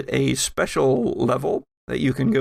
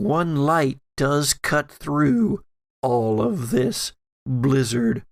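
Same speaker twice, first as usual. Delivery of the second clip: game master scene narration. Acted. GM sets the scene.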